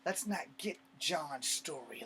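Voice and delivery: loud, slow, bitterly sarcastic; bitter sarcasm. Acted. Soldier mocking those who came for John, bitterly sarcastic. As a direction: spell out the mock reasoning, loud and drawn out. Sarcastically mocks the pursuers' reasoning.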